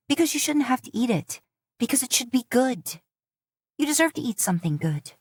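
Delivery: mild tearful plea. A narrator's reading. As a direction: fight back tears as she speaks. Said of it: "Tears well up in her eyes".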